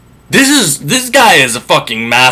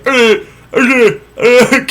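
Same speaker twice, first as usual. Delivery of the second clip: dumbfounded stammer; 10 semitones higher, much slower than usual. Acted. Suitors stumped by bow.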